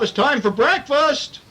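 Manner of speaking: high, slow sweet mother voice; mother's voice. A narrator's reading. Mother telling Truffles breakfast is ready, high and slow. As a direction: sing it up high like a gentle mom. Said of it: "Mother called".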